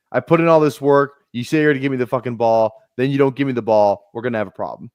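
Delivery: firm griping receiver, half-acted; mock angry demand. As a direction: play the receiver demanding the ball. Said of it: "He was like".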